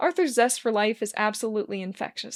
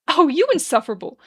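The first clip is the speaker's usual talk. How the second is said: exasperated outburst; 6 semitones higher, 9 dB louder than usual. Acted. Arthur scolding playfully.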